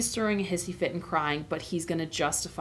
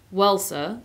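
lightly voiced Cockney cabbie; mild Cockney, considering the answer; Cockney accent; 4 dB louder than usual. Cabbie answering Aslan, light Cockney accent. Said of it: "said the cabbie slowly".

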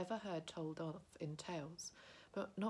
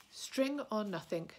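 louder, higher, slow desperate cry; shriek; 4 semitones higher, 7 dB louder, slower than usual. Acted. Gollum throws out two guesses at once, louder slow cry. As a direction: blurt both guesses in panic. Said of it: "shrieked Gollum".

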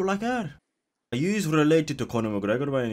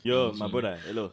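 mock West African greeting; put-on West African accent; 2 semitones lower than usual. Streamer greeting a stranger as my brother, put-on West African accent.

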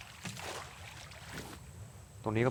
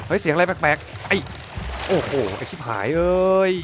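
startled outcry; 6 semitones higher, 7 dB louder, slower than usual. Real, not acted. Startled by attack in game.

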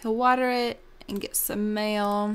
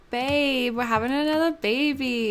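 acted higher, louder happy news; excited announcement; 4 semitones higher, 5 dB louder than usual. Gamer voicing wife telling husband about the baby, excited. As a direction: play the thrilled mom-to-be, pitched up and louder.

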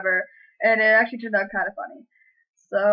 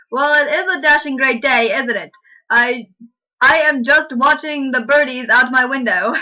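louder, chirpy fake British small talk; mock British accent; 2 semitones higher, 5 dB louder than usual. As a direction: lay the posh Brit on thick. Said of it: "How's that British?".

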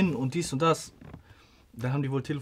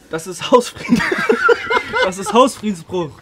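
louder, higher mock angry shout; retold shouting; 5 semitones higher, 8 dB louder than usual. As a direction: imitate someone yelling you out, half laughing. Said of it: "er schreit".

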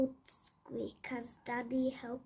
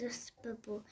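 yawning; 2 semitones lower, 7 dB quieter, faster than usual. Acted. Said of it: "yawned Squeak".

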